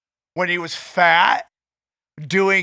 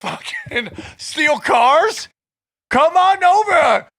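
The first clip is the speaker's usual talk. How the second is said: higher hyped-up hacker ad voice; mock shady ad pitch; 6 semitones higher than usual. Friend parodies a hacking-school ad, hyped-up pitch. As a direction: sell it like a sleazy online ad. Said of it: "that's like".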